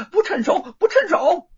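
high, loud impatient refusal; Monkey King. A narrator's reading. Monkey King rejecting the heavy fork, impatient high voice.

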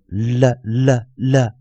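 "了" repeated as a dark L with a schwa; dark L demo. Shown as a demonstration. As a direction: model "了" for students to copy. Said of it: "那在dark L".

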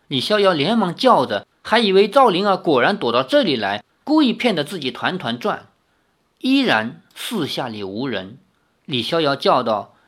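expressive, measured novel narration; story narration. A narrator's reading. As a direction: read the tale aloud with lively intonation.

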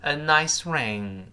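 drawn-out "Buy her a nice ring" for learners; teacher's slow demonstration; slow model phrase. Shown as a demonstration. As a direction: read the phrase slowly and clearly. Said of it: "给某人买某个东西".

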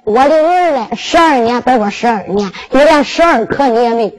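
put-on old king's voice breaking into a sob over his son; tearful lament. Old king grieving aloud over his blood-soaked son, sobbing. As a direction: cry out 我的儿嘞 and let the tears come through.

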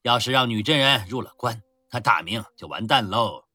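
loud swaggering army commander; boastful rough general. Acted. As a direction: brag loudly over wine. Drunken general boasting at a feast. (粗豪自大的将军大声吹嘘)

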